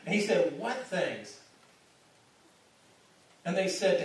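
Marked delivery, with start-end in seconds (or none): 0.6-1.4 a knowing, teasing question; playful feigned innocence. Shown as a demonstration. Pastor voicing Jesus teasing the two disciples, playfully innocent. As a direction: play dumb with a wink in the voice. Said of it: "Jesus has a sense of humor".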